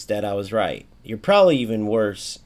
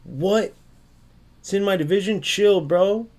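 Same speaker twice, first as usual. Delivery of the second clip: much higher, whiny mock outrage; mocking annoyed player; 7 semitones higher, 3 dB louder than usual. Streamer mimicking an upset opponent, whiny mock outrage. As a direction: imitate a touchy player getting defensive. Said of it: "if they get mad, like".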